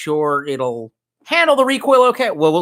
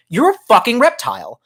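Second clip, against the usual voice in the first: high-pitched incredulous jab; hammed-up high accusation; mock accusation; 8 semitones higher than usual. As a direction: call him out, pitched way up. Acted confrontation of the man.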